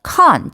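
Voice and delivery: con said as the full, stressed CON; stressed syllable. Shown as a demonstration. Teacher isolating the noun's first syllable, stressed con. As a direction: give con a clear open vowel. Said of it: "첫 번째 음절에 강세가 있어요".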